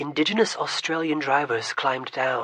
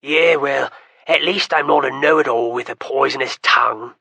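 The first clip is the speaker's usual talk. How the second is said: a lightly voiced young man, louder, grinning back; easy smile; 7 dB louder than usual. Berrigan answers his sister's teasing with an easy smile. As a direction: toss the jab back with an easy grin. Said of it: "Berrigan replied with an easy smile".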